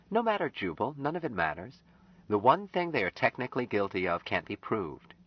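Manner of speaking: put-on high, earnest young woman's voice; Anne. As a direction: voice Anne, pleading gently with Jubal.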